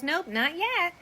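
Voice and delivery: hint of a matter-of-fact boy; lightly voiced son. Son answers dad about takedowns, lightly voiced kid. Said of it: "And my son goes".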